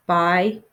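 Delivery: Bisect split in two, long pause before "sect"; syllable by syllable. Shown as a demonstration.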